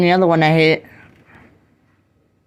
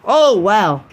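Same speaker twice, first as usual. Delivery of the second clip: loud amazed gasp of wow; wowed by the lightning; excited; 6 dB louder than usual. Real, not acted. Reacting to a lightning strike.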